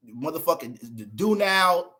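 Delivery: slow, dragging each word; drawn out. Shown as a demonstration. Streamer mocks old school do nows, slow drawl. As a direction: stretch it out lazily. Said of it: "drawn-out slow".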